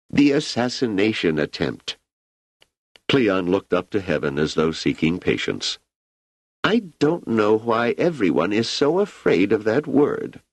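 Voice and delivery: put-on an ageing emperor musing easily to an old friend; Emperor Cleon. Emperor speaks, narration between.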